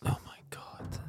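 breathless shocked whisper. Real, not acted. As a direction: gasp it out under your breath. Shocked reaction to cheap surgery.

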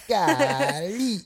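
high, loud mock-astonished exclamation; playful amazement. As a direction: squeal it in comic disbelief. Playful exclamation at a lucky coupon.

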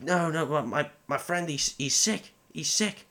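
mock-plead that his friend is sick; imitating Merry. Merry pleading to the orcs, a lightly voiced plea. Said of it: "Merry's just like".

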